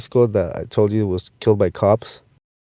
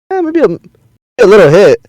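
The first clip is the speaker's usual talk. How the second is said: tempted; 9 semitones higher, 7 dB louder than usual. Retold or imitated. Drunk, tempted to say yes.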